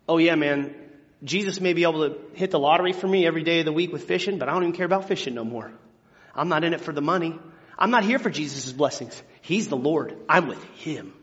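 fast, offhand, lightly voiced; casual Peter. Peter shrugging off the money to follow Jesus, breezy. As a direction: toss it off like a regular guy. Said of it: "And Peter goes".

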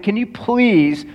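exasperated pleading. Retold or imitated. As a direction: stretch out the begging, retelling it. Retold plea for roadside help.

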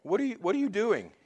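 lightly put-on British accent, prim and fussy; mock British drama. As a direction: play it like a tame British period drama, mildly shocked. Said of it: "sounds to me kinda like a dull British drama".

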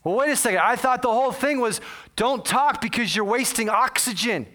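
acted incredulous challenge; indignant protest. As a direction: protest emphatically, pitch riding high.

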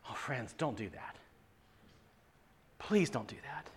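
soft, low, earnest plea; hushed pleading. Real, not acted. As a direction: plead quietly, almost under your breath. Preacher pleading with congregation.

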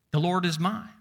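last word "mine" lifted and set out; stress on "mine". Shown as a demonstration. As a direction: let "mine" rise at the end. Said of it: "We can talk about my".

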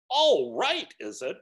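high, loud incredulous scoff; outraged ghost. A narrator's reading. Ghost mocks the spirit's calm reply, outraged. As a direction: fling the words back at him.

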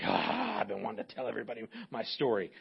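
lightly voiced eager storyteller; mock eager. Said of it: "some of you are like".

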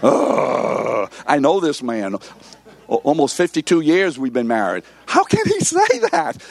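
lightly voiced wife, exasperated; mock-exasperated wife. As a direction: play the wife rolling her eyes at her husband. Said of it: "my wife shudders".

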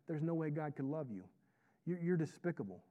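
a hushed aside, without a true whisper; devil's whispered taunt. Acted. Devil feeding lies into a believer's ear, hushed taunt. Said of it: "he whispers things in your, in your ear like".

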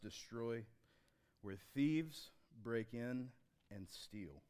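slow, solemn reading of scripture. Acted. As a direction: read it slowly and reverently to the church. Reads scripture aloud.

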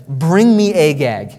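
loud, slow, firm order; commanding prophet. Acted. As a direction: order it with full authority. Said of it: "It's a command".

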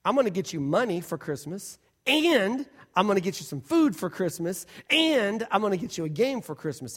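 "and I'm gonna get you" repeated clearly before each gift; each gift stacked. Shown as a demonstration. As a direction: list every gift with a full "and". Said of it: "unless I said it like this".

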